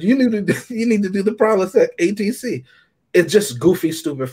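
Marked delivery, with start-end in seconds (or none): 0.0-2.6 higher, laughing, hammed-up pitchman voice; a light send-up of a commercial spokesman; mock comedian line. Repeating comedian's movie line.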